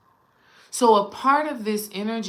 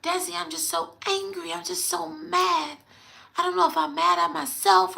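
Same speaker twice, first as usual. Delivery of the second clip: much higher, strained grandmother impression; hoarse grandma; 10 semitones higher than usual. Grandma venting to her grandchild about being angry, hoarse and high. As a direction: imitate an upset grandma croaking high through her hoarseness. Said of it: "This is literally how she sounds".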